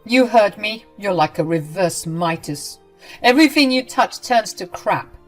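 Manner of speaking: loud, high, contemptuous rant; mother-in-law berating her, loud and cruel; cruel tirade. Acted. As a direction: tear into her. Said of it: "started going off again".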